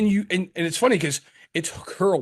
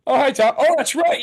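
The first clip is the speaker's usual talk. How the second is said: playful high greeting; 9 semitones higher, 5 dB louder than usual. Real, not acted. Teasing partner about brewery owner.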